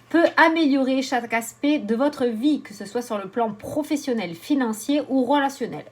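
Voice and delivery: animated reading with lifted phrase starts; card read aloud. Acted. Oracle reader listing exercise's benefits, animated reading. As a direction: read the card's message out clearly.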